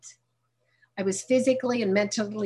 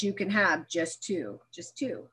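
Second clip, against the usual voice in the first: inner voice; 6 dB quieter, slower than usual. Retold or imitated. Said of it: "my head says".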